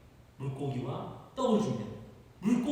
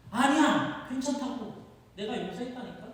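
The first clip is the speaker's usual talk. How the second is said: insistent reassurance; 3 semitones higher, slower than usual. Acted. Jesus insists on forgiveness.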